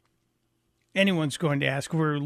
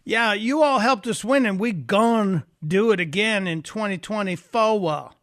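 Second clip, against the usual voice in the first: mock Southern accent; 3 semitones higher than usual. Host parroting Kamala's Georgia rally line, mock Southern accent. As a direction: repeat the line in a mocking Southern twang. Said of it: "unveiled her new Southern accent".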